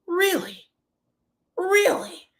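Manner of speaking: high, far-off disbelieving voice; imitating Maurice's high incredulous really; mock incredulous whine. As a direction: squeak it out in fake disbelief. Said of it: "Maurice said".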